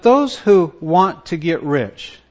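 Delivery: WANT leaned on in "want to get rich"; stress on WANT. Shown as a demonstration. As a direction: put the emphasis on the word WANT. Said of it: "do you see the emphasis".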